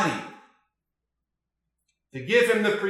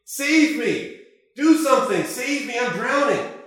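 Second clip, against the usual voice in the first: rising, louder panicked calls; cries for help; 5 semitones higher, 3 dB louder than usual. Acted. Drowning friend calling from the water, panicked shouts. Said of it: "they're crying out".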